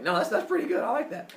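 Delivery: put-on high-pitched little-boy voice; quick high reply, pleased with the offer; agreeable child. Boy accepting his father's promise, high child voice.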